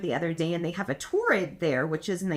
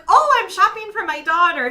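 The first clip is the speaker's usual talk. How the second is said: retold reply; 10 semitones higher, 10 dB louder than usual. Her own retold reply.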